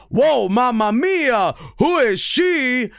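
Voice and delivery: high, drawn-out cartoon amazement; hammy, slow swoon of a hero seeing a girl; Sonic. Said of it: "he goes with his, you know, dialogue".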